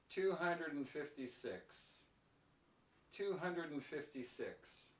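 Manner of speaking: natural linking at an easy, measured pace. Shown as a demonstration. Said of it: "keep my pronunciation natural, but just a little bit slower".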